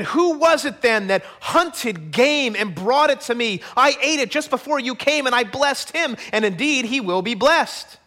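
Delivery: acted shock, pressing and high; violently shaken father. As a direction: deliver it as a distraught father, pitch up. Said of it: "trembled violently".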